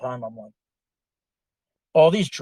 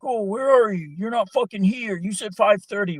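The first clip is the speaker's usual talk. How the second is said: mock phone argument; 8 semitones higher, 4 dB louder than usual. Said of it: "they're arguing on the phone".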